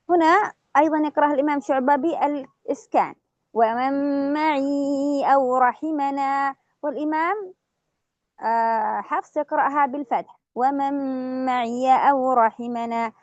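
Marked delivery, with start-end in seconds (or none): 3.5-6.6 drawn-out tajweed chant; slow Quran recitation. Shown as a demonstration. Teacher recites Shu'ba's reading, slow chant. 10.6-13.1 drawn-out tajweed chant; slow Quran recitation. Shown as a demonstration. Teacher recites Shu'ba's reading, slow chant.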